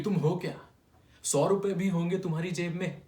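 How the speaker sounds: belittling boss. Acted. Clerk acting out his senior's taunt, belittling. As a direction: take off the boss belittling you. Acts out the boss's belittling question.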